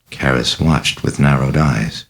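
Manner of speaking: plain reading voice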